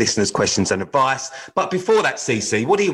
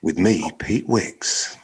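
deep radio presenter announce; 4 semitones lower, much slower than usual. Shown as a demonstration. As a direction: announce your name like a DJ. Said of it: "that was my radio voice".

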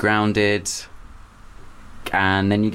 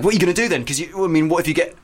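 fretting teachers, imitated higher; mock panic; 7 semitones higher, faster than usual. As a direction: raise the pitch like a worried teacher. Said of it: "teachers and stuff were like".

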